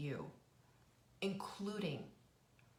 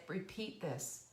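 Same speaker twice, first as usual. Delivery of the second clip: gentle coaxing; slower than usual. Retold or imitated. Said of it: "And I said".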